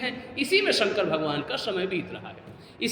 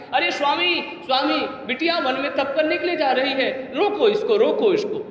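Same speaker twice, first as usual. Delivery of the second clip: raised, urgent voice of a worried mother; acted maternal alarm, louder toward the end; frantic pleading; 6 semitones higher, 3 dB louder than usual. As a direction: call out to the husband, pressing harder on each plea. Mother rushes, begs husband to stop daughter.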